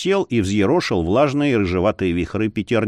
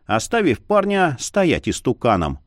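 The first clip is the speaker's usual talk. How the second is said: usual speaking voice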